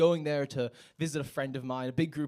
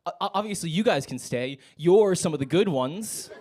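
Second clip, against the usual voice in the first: higher-pitched, stammering backpedal; flustered; 4 semitones higher, 6 dB louder than usual. Retold or imitated. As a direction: act out an awkward, flustered exception being made. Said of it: "They kinda got flustered".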